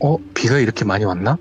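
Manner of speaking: plain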